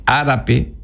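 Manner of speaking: árape with its first A stressed and drawn out. Shown as a demonstration. Teacher shows students where the accent falls, stress on the first A of árape. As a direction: lean on the opening A of árape. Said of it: "acento en la A, primera".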